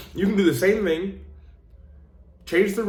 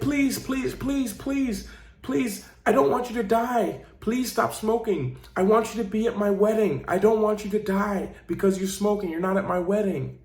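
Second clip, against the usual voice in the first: pleading daughter; 6 semitones higher than usual. Retold or imitated. Little daughter begging her smoking father to quit, tearful. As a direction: beg him through tears to stop. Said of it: "She's like".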